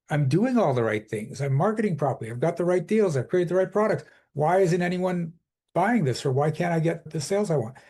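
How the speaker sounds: frustrated. Retold or imitated. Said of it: "you're frustrated".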